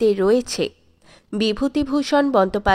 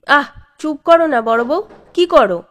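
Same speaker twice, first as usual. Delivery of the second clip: louder, urgent plea to stop; exasperated hush; 3 semitones higher, 6 dB louder than usual. A narrator's reading. Husband loudly hushing his scolding wife. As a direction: shush her before it gets worse.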